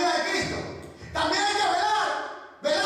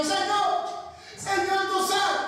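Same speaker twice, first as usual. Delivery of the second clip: mock child wail; 5 semitones higher, slower than usual. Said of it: "pegar gritos como un niño".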